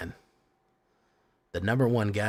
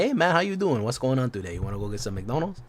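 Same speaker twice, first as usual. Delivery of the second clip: put-on friendly greeting in Latino-accented English; 3 semitones higher, faster than usual. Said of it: "if you talk like this".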